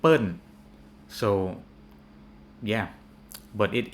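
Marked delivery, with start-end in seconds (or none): 0.0-0.4 Pern said as 'pern' with final N; Thai nickname. Retold or imitated. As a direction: punch Pern, louder, falling. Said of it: "some Thai people's nicknames".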